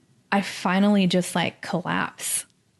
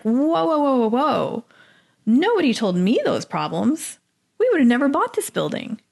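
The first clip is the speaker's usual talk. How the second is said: higher, retold alarm at the bad news; alarmed whoa; 6 semitones higher than usual. Telling the realtor nobody disclosed the problems, in retold alarm. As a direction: stop her with a string of shocked whoas.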